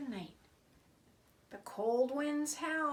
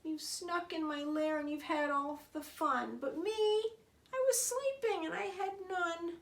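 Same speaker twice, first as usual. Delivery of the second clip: sad bear; 6 semitones higher than usual. Acted. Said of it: "now he looks very sad".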